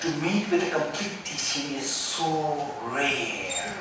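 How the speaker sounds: slow, soft, solemn recitation; reverent scripture quote. Retold or imitated. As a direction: quote the master quietly and with reverence. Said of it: "Bodhisattva Shantideva said".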